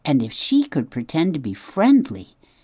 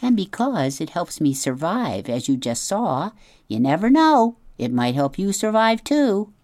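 a hint of a proud, theatrical opossum; lightly voiced opossum; 4 semitones higher than usual. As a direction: play the show-off opossum, lightly. Opossum advising robot.

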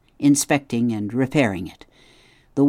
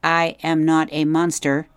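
a higher, even robot voice, careful and kind; polite robot; 5 semitones higher, 4 dB louder than usual. A narrator's reading. Roz greets the startled beavers, gently robotic. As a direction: speak like a gentle machine trying to reassure.

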